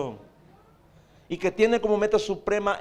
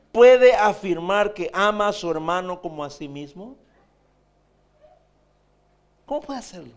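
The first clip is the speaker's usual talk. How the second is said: fiery preaching; 5 dB louder than usual. Real, not acted. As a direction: build the charge, louder at the end. Preacher's rhetorical challenge.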